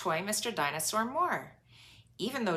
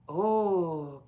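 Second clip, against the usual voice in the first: excited gasp; 5 dB louder than usual. Acted. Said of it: "gasped Peppa excitedly".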